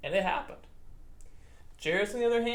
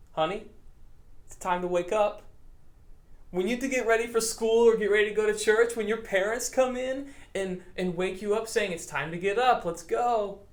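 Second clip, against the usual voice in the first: gentle wake-up call. Acted. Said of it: "he says to her".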